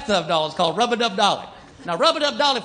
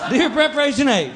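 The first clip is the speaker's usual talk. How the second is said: slow, drawn-out hick complaint letter; dim letter writer; 3 semitones higher, slower than usual. Retold or imitated. Dim customer reading his complaint letter, drawn-out and hammed-up. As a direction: read the letter like a clueless yokel. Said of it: "somebody wrote 'em a letter".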